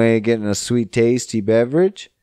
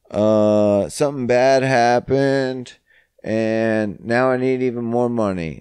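mock hard-luck begging; 3 semitones higher than usual. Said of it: "they're just begging".

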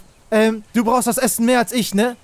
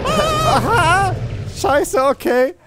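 jumps as the beast roars; startled; 9 semitones higher, much slower than usual. Real, not acted. Startled by roaring dinosaur.

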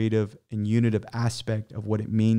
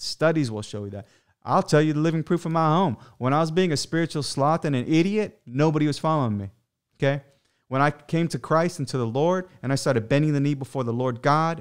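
higher, impassioned sermon voice; fervent preaching; 4 semitones higher than usual. Acted. Urging husbands to lay down their lives, impassioned preaching. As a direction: preach it to the men with fire.

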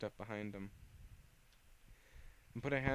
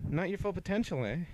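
high, loud taunt; 8 semitones higher, 5 dB louder than usual. Acted. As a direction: goad her mockingly.

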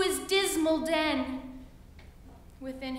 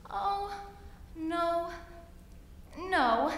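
buzzy housefly; 5 semitones higher, much slower than usual. Acted. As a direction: squeak it high and urgent. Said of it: "said the little fly".

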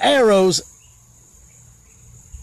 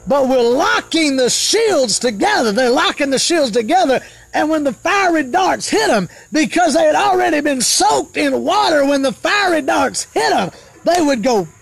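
higher-pitched, ringing declamation with falling phrase ends; fervent preaching; 6 semitones higher than usual. Real, not acted.

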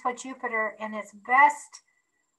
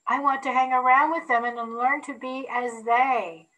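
put-on old-fashioned phrasing. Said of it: "I said that old-fashioned like".

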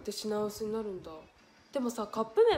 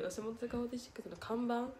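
看板 rising in puzzlement, softer; puzzled reread; 6 dB quieter than usual. Shown as a demonstration. Streamer rereading a baffling comment, puzzled. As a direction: reread it confused, questioning.

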